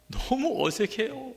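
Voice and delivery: high, slow shy voice; a lightly voiced new bride saying it's awkward; bride's answer. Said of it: "물어봤어요".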